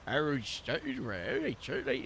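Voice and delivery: the deep-set take of the Harold accent. Shown as a demonstration. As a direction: press the tongue down and drag out "stayed". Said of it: "push the tongue down to make it a bit deeper".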